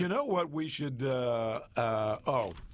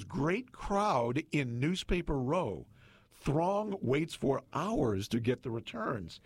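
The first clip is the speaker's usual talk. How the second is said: slow, deliberate headline read with punched words; dramatic newspaper read; slower than usual. Acted. Radio host reading an old election headline to co-host, slow proclaiming read. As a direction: proclaim each phrase, drawing it out.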